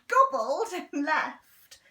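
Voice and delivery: gobbled with a laugh; amused storyteller laughing through it. A narrator's reading. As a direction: chuckle through the words, slowing down. Gleeful story opening.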